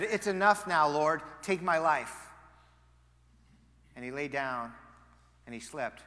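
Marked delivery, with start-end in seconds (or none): 0.0-2.3 despairing plea. Retold or imitated. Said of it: "and said".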